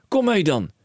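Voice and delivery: high and loud, racing with plans; a dad who sees a fortune; excited cry. A narrator's reading. Father telling his son of riches, high excited call. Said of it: "riep meneer Corneel Krakeel".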